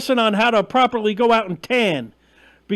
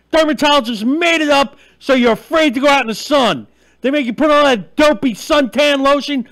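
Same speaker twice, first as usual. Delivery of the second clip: insistent, forceful rallying of the audience; worked-up, punchy tirade; fired-up rant; 3 dB louder than usual. Real, not acted. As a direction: push each point out emphatically. Fired-up rant rallying viewers to tan.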